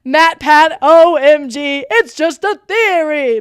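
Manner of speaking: high, loud, slow fan gushing; reading her notes in a giddy voice; mock fan squeal. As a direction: gush like a starstruck fan. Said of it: "All caps".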